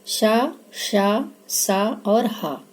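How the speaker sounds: शा, सा और हा stretched very slowly; sibilants drawn out. Shown as a demonstration. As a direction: hold each ऊष्म sound long for the class. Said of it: "ऊष्म व्यंजन". (ऊष्म वर्णों का खींचकर उच्चारण)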